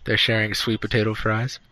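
muffled behind a hand; hand over mouth. Real, not acted. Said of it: "hand over my mouth".

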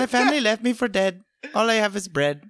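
put-on quick rhyming line in wobbly Chinese-leaning accent; accent drifting toward Chinese. Character rapping his sad backstory, Chinese-leaning accent. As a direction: rattle off the rhyme in a wandering Asian accent. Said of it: "He's going Chinese".

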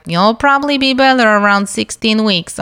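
light imitation of a Russian-accented nurse. OB nurse reassuring her pregnant patient, lightly imitated Russian accent. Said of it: "this thick Russian accent".

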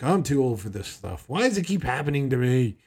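Daniel whining he's too old, rising to a mock outburst; grumpy old man. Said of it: "Daniel was probably like".

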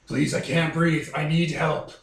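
fat vampire voice. Acted. Voicing the overfed fat vampire.

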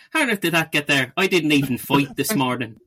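a hint of an Irish brogue, puzzled; mock Irish bloke wondering at his bruises; light Irish accent. Dermot at the mirror over his cuts, lightly voiced Irish accent. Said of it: "Except Dermot's Irish".

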